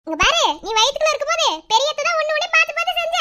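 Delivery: high, loud playful coo; teasing baby talk. Acted. Aunt warns baby about bad-boy uncle, teasing baby talk. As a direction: tease someone through the baby.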